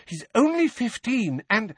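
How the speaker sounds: high, agitated insistence; motherly indignation; heated protest. A narrator's reading. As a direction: protest urgently, pitched very high.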